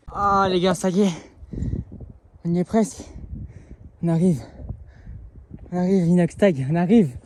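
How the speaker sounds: loud, high, triumphant calling out; excited shouting. Real, not acted. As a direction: shout it out as you reach the top. Reaching the summit, calling out.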